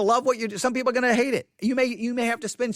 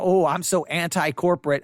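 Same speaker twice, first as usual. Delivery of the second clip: mock smug; 3 semitones lower than usual. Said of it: "I'm not trying to sound it like".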